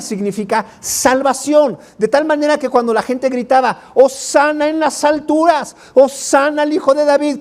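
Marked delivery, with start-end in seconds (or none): 3.9-7.4 más agudo, aclamando; aclamación de la multitud. Acted. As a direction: proclama como multitud jubilosa. La gente gritaba hosana. (la gente gritando hosana al entrar Jesús, agudo)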